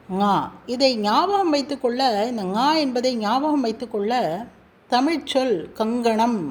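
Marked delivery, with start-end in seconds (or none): 0.1-0.3 ஙா as "nga", like the ng in kanganam; velar nasal ஙா. Shown as a demonstration. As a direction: hum ஙா from the back of the tongue. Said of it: "கங்கணம் என்ற சொல்லில் இங்கு".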